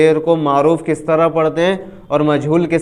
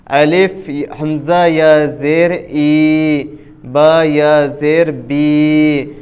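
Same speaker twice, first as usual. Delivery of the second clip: spelling drill. Shown as a demonstration. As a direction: sound out each syllable for the learner. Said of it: "حرف مد یا کی مشق کریں گے".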